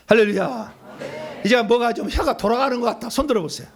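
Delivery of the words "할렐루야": shouted hallelujah. Real, not acted. Shouted praise after tongues.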